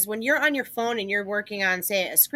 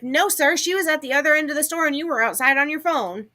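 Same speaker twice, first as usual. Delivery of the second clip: firm correction; 6 semitones higher than usual. Retold or imitated. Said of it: "And I was like".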